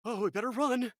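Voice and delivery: high-pitched bad British cry; put-on British alarm, pitched well up; terrible British accent. Game host imitating the guys at sea, high bad British accent. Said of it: "they sound like that".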